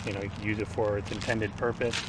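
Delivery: slightly slurred, numb-mouthed speech; numb mouth after teeth pulled. Real, not acted. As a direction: talk like your teeth were just pulled. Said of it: "I'm talking a little funny".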